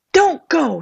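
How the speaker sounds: frightened plea. A narrator's reading. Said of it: "said the woman".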